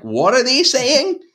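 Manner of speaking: high, slow mock Londoner asking; a silly bemused Londoner voice; comical London voice. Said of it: "was that your London accent".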